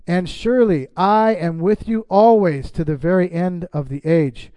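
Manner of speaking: measured, deliberate reading of verses; scripture reading. Acted. Pastor reading Bible verses to the congregation, measured and deliberate.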